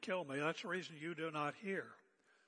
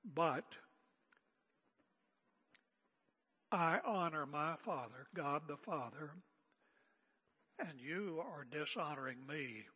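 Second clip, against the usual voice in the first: calm. A narrator's reading. Jesus answering his hostile accusers, calm and understated. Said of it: "he said calmly".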